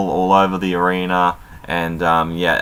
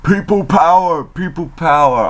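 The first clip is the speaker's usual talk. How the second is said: higher, louder hammed-up chant; hammed-up shout of the catchphrase; mock scream; 9 semitones higher, 4 dB louder than usual. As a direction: yell the slogan like a rally cry. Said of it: "Laurinaitis just screams out".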